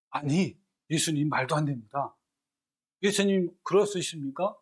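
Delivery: 아니라고 따지는 베드로처럼 조금 세게; Peter's protest. Acted. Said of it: "좀 더 리얼하게 설명하면 이런 겁니다". (예수님을 붙들고 항변하는 베드로, 약간 격앙된 목소리)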